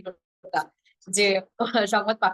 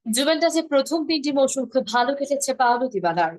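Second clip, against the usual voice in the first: sports news read. Shown as a demonstration. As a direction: drive through it with few pauses, sports desk energy. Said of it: "যেমন এইভাবে পড়ে খেলার খবরগুলো".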